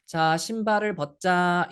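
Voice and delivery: very slow, every syllable spaced out; slow speech to a child. Shown as a demonstration. Teacher slowing down for a small child, very slow and deliberate. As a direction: talk slowly so a toddler can follow. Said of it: "천천히 말해줘요".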